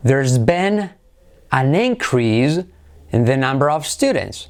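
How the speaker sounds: INcrease as a noun, in careful phrases; stress on first syllable. Shown as a demonstration. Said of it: "acentuamos la primera". (increase con acento en la primera sílaba)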